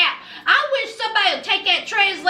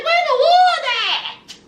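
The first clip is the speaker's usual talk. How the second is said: much higher, louder, laughing complaint; exasperated customer; 10 semitones higher, 3 dB louder than usual. Retold or imitated. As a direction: squeal it like a fed-up diner. Host complaining about restaurant service.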